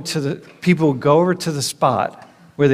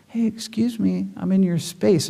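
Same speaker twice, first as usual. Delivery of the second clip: much softer, gentle apology; apologetic agent; 4 semitones higher, 4 dB quieter than usual. Retold or imitated. Korean agent apologizing to traveler for closeness, soft and gentle. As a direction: apologize humbly for being too close. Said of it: "they're apologizing for".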